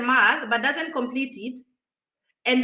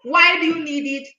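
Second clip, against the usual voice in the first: scornful cashier; 2 semitones higher, 4 dB louder than usual. Retold or imitated. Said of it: "And she was like".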